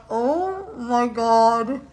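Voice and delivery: drawn-out, stunned oh my God; retold astonishment. Recalling her reaction to his reading, slow astonishment. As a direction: stretch it out slowly in amazement. Reacting to being read accurately.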